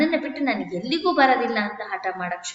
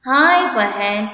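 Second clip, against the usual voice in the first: slow, louder drawn-out cry of grief; wailing lament; 7 dB louder, much slower than usual. Acted. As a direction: stretch it into a mournful wail. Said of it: "ಬ್ರಾಹ್ಮಣ".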